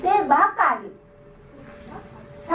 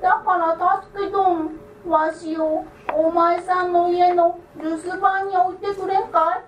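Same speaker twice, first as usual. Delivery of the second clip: raised, lightly voiced little old man; creaky wise old man; 3 semitones higher than usual. The idle man asks.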